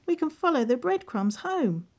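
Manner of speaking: put-on high young boy voice; a boy with a plan, hopeful; Hansel voice. Hansel voiced, much higher.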